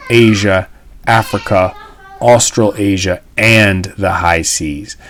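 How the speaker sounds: measured, deliberate speech reading; a teacher reading an old radio speech to the class; reading a speech aloud. Acted. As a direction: read it out like a formal address. Teacher reads FDR speech aloud.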